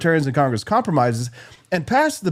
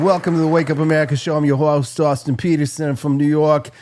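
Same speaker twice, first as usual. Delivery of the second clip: mock New York accent. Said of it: "That's a pretty good Eastern accent".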